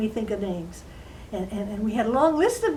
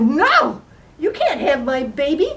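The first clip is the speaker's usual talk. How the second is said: alarmed refusal; 3 semitones higher, 7 dB louder than usual. Acted. Queen refuses the little man her baby, alarmed. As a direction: refuse outright like a frightened mother.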